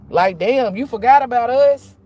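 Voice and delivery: jealous complaint. Acted. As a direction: play the jealous spirits calling her out. Jealous ancestors confronting her.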